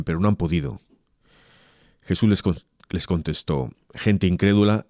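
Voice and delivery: solemn, measured liturgical reading; Gospel proclamation. Acted. Reader proclaims Mark's Gospel to the faithful, solemn.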